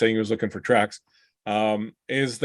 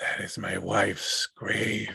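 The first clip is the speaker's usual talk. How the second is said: breathy ghost whisper, echoing as if from everywhere; 2 semitones lower, 8 dB quieter than usual. Describing a voice the listeners hear coming from several places, the narrator uses a reverberating, emanating voice. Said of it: "a voice that's kind of reverberating and kind of emanating".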